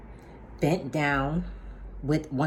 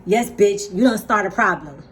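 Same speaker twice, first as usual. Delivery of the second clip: raised, confrontational retort; retold angry challenge, pitched up; cussing her out; 4 semitones higher, 5 dB louder than usual. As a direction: retell yourself cussing out the neighbor. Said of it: "while I'm cussing".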